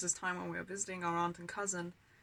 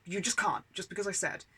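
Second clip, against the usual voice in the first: imitated strict mum, raised volume; stern and firm; 5 dB louder than usual. Mum shutting down the kids' pleading, stern. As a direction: lay down the law, louder. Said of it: "stern and firm".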